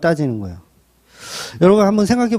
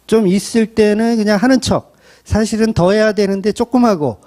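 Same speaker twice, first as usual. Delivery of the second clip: ordinary delivery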